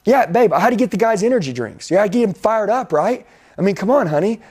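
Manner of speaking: husband justifying energy drinks to his wife, mock pleading; sheepish excuse. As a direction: talk your way out of it, sweet-talking. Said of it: "I'm like".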